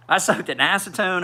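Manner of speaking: laughing at his own desperate fix. Real, not acted. Repeats it with a laugh.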